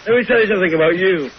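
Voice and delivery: lightly voiced husky diva; a hint of an offended grand actress; Kathleen Turner impression. Caller plays Kathleen Turner scolding the hosts. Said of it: "This is Kathleen Turner".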